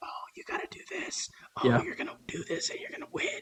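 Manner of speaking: put-on whisper. Retelling what a character whispered to a boxer: imitating a whisper. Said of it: "quote unquote, whispering to him saying".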